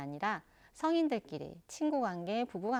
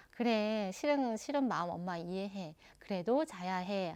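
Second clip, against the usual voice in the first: firm and warm. Shown as a demonstration. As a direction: hold the line gently but don't budge. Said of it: "단호하고 따뜻하게".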